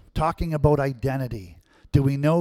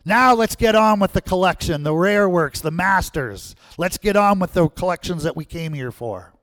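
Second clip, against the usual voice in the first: higher, louder call fading to plain; shouted demand; 4 semitones higher, 4 dB louder than usual. Retold or imitated. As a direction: push the crowd's demand, then settle. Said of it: "a man sitting in the second row shouted out".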